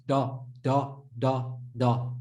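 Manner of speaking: "Da" with a light Dal-like D; low, repeated plain "Da"; unimproved Dad. Shown as a demonstration. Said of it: "Whose Dad sound like this?".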